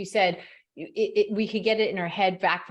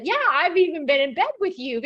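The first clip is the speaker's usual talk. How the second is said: embarrassed laugh; 8 semitones higher, 4 dB louder than usual. Retold or imitated. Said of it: "I almost said".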